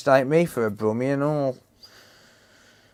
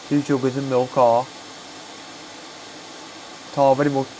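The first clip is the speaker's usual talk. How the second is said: put-on Black Country accent; 2 semitones higher, faster than usual. Streamer playing a friendly neighbour offering tea, in a Black Country accent. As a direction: play a chatty local offering tea. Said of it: "stop doing accents".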